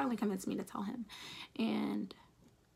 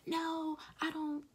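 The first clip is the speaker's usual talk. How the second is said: his lecturing reply; 7 semitones higher than usual. Retold or imitated. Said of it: "it was like".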